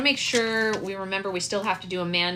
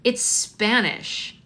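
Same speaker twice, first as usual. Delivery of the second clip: put-on withering child; 3 semitones higher, much slower than usual. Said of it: "looks at her like this".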